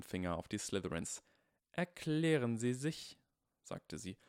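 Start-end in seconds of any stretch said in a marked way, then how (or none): 1.7-3.2 slow, loud stern teacher. Acted. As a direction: demand it with authority. Stern teacher confronts bullies.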